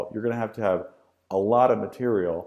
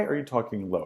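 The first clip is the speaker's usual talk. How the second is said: lower, softer question with a falling end; low pitch; 4 dB quieter, faster than usual. Shown as a demonstration. Teacher demonstrates voice modulation to students, low pitch. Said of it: "think of voice modulation".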